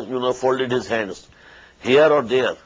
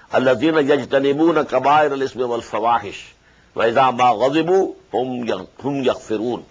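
melodic, measured tajweed chant; Quran recitation; much faster than usual. Acted. Teacher recites the verse to his students, chanted tajweed. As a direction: intone the verse as in prayer.

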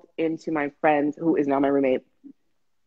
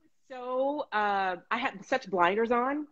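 softer, slower admission; quiet; 5 semitones higher, 7 dB quieter, slower than usual. Real, not acted. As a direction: let the voice sink as you admit it. Recalling denial, voice drops.

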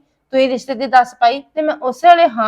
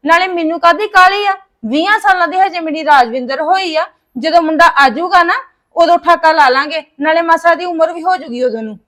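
understated indignant protest; mildly angry; 3 dB louder than usual. Acted. Mother refusing to rush her daughter's photo engagement, mildly angry. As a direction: object with a touch of anger. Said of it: "ਤੂੰ ਤਾਂ ਗੁੱਸਾ ਕਰ ਬੈਠੀ ਐ".

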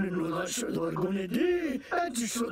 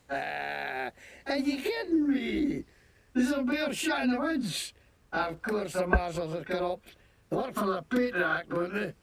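fake Scottish accent. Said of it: "what the hell kind of accent is that, you fake-ass Scottish nonsense".

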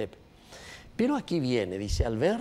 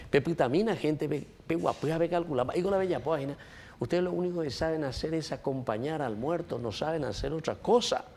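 raised preaching voice; 6 semitones higher than usual. Acted. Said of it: "el Señor nos detiene a nosotros y nos dice".

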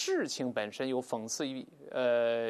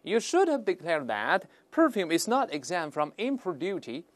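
slow, higher-pitched sarcastic reproof; 4 semitones higher, 4 dB louder than usual. Acted. Customs officer correcting a traveller over duty, sarcastic. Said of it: "he asked sarcastically".

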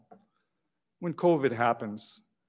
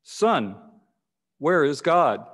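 "Son, where is God?" a little firmer and louder, "where" pressed; firmer, louder repeat of the question; slower than usual. Acted. Pastor repeating his question to the boy, firmer and louder. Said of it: "in a little firmer and louder".

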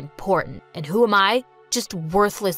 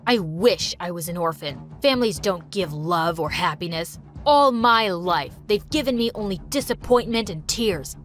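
shouting; 5 semitones lower than usual. Acted. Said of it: "shouted at the top of his voice".

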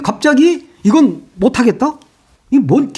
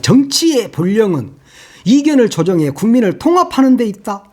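pompous quote. Retold or imitated. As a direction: read it like a lofty official statement. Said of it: "그러면서 막". (거창한 척 비꼬며 읽기)

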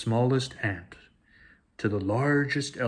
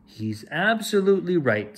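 sly agreement; 6 semitones higher than usual. Acted. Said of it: "Scar slyly agreed".

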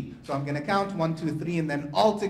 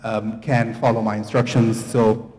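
calling out; 7 dB louder than usual. Real, not acted. Laughter yoga teacher directing the room, calling out louder. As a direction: call the instructions out to the group.

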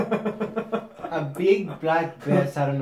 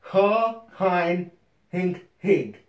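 wearing a mouthguard; 4 semitones higher, much slower than usual. Real, not acted. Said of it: "He can't pronounce anything".

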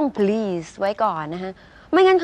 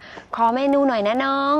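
slightly drawn-out, higher, friendly request; simple polite request; 3 semitones higher, slower than usual. Shown as a demonstration. Diner asking a younger waiter for the menu, simply polite. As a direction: ask casually but politely, taking your time. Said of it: "เอาแค่ว่า".

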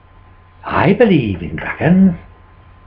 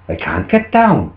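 low-pitched, lightly voiced farmer; helpless farmer; 4 semitones lower than usual. Farmer stuck up tree answering wife, low voice. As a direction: answer lower, a touch helpless.

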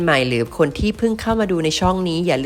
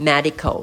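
"medical" stressed on MED; first-syllable stress; much slower than usual. Shown as a demonstration. Teacher models for students, stress on the MED of "medical". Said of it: "เน้นพยางค์แรกนะครับ".

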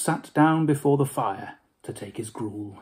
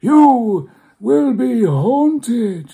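very slow, higher, louder doom-laden spectre; ominous ghost; 10 semitones higher, 10 dB louder, much slower than usual. Acted. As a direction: stretch out the prophecy.

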